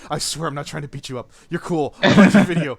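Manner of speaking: overly apologetic, pleading; walking on eggshells. Retold or imitated. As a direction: tiptoe around, desperate not to offend. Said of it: "I have to come on, like, super defensive".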